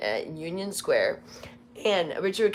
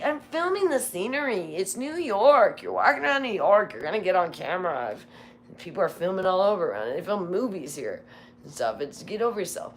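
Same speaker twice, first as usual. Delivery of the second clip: exasperated rant; 3 semitones higher, 3 dB louder than usual. Retold or imitated. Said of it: "And it's like".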